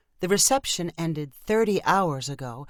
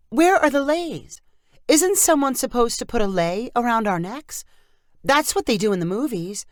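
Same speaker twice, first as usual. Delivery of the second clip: much higher, louder dismayed bride; 7 semitones higher, 5 dB louder than usual. Acted. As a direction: let down, the movies lied. Dawn disappointed no leis.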